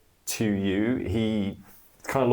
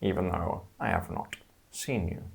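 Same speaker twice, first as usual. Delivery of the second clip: serpent voice. Acted. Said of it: "the serpent voice".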